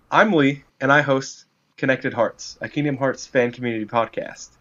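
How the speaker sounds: upbeat podcast promo read. Acted. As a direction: sell it like a radio spot. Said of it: "We're getting an exclusive live read".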